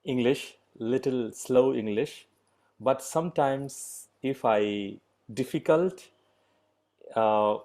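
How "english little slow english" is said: slow, careful English for learners. Real, not acted. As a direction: speak slowly, leaving gaps between phrases. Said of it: "I try my best to speak slow".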